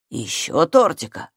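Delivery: low, slow dreamy dad voice; sleepy mumble. A narrator's reading. Father dreaming of cake, sleepy mumble. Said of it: "пробормотал он".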